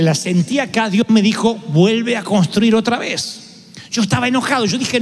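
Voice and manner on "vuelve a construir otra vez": slow, solemn voice of God. Retold or imitated. Preacher voicing God's command, slow and solemn. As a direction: draw it out slowly as God.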